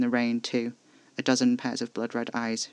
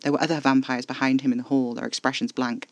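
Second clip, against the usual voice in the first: ordinary delivery, nothing marked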